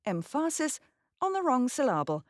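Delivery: EMPHASIS as "em-FA-sis" and SYLLABLE as "sy-LA-ble"; misplaced stress. Shown as a demonstration. Narrator jokily shows learners wrong stress, "em-FA-sis", "syl-LA-ble". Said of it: "if I put the wrong emphasis".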